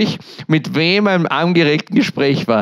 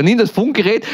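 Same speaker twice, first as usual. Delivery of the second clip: mock order; 6 semitones higher than usual. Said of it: "schreibt er".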